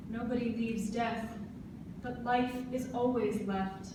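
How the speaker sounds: measured poetry reading with pauses between lines; spoken verse for a listening audience; poem recitation. Acted. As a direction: recite it line by line, letting each phrase stand.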